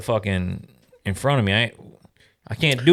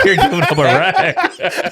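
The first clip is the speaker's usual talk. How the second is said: high, drawn-out words through real laughter; laughing; 7 semitones higher, slower than usual. Real, not acted. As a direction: crack up while saying it, voice pitched up. Laughing at friend's bet.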